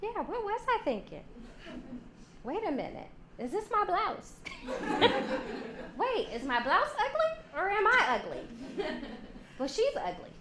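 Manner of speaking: high, fretting mock self-doubt; woman doubting herself over a blouse, anxious; insecure woman. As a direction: spiral into worry. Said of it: "No, she'd say".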